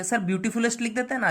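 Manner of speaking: a hint of an eager pupil's suggestion; imitated student objection. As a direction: pipe up quickly like a pupil questioning the teacher. Teacher voices a student's objection.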